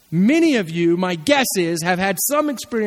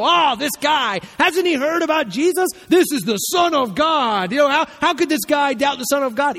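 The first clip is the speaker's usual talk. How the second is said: mock outraged preacher, pitched up; 5 semitones higher than usual. Preacher mocking the doubting father, mildly outraged. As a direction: parody a scandalised preacher. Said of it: "I heard preacher after preacher go".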